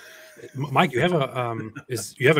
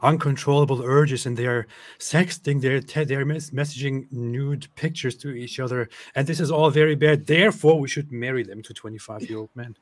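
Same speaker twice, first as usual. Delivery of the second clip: mocking paraphrase; 3 semitones higher, 4 dB louder than usual. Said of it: "He brings up these things like".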